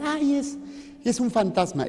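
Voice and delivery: a touch of fright, high on the first words; hint of disciples panicking at a ghost; mild mock scream. Disciples on the boat seeing Jesus, mock frightened. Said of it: "empezaron a gritar".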